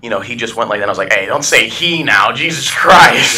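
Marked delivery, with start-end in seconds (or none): 1.1-3.4 mock outrage. Mock outrage at friend's pronoun.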